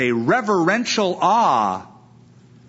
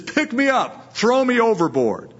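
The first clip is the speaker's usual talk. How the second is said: high-pitched insistent quote; acting out Jonah's demand, voice lifted high; imitated demand; 7 semitones higher than usual. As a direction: pitch it up as a dramatic order. Acts out Jonah's demand to sailors.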